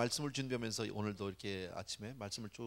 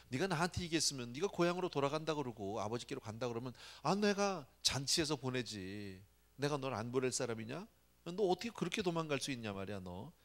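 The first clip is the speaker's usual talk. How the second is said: angry reproach; 4 semitones higher than usual. Retold or imitated. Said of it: "막 그렇게 화가 나는 거죠".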